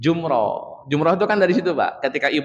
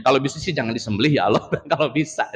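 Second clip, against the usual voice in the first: mock pleading prayer; faster than usual. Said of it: "Ibrahim juga ngomong gitu".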